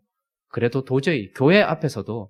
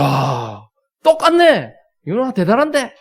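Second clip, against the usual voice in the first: high, loud astonished praise; mock amazement; exaggerated delight; 7 semitones higher, 7 dB louder, slower than usual. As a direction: gush at the kid's move. Dad praising daughter's dance.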